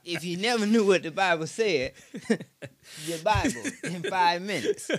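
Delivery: talking through real laughter; amused, laughing as you speak; delighted chuckling. Real, not acted. Laughs after hearing the retelling.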